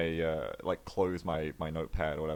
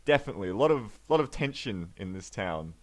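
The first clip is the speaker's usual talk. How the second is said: higher, stammering, flustered; flustered Leaf; 3 semitones higher than usual. Acted. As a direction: stall awkwardly with a stunned face.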